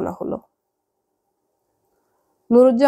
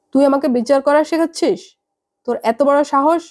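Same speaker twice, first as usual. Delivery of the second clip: raised higher, a mother affronted by her daughter; indignant outburst; 4 semitones higher than usual. Acted. Mother scolding daughter over the phone, indignant and higher. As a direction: snap back, how dare you. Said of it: "এত চেঁচাচ্ছ কেন মা?".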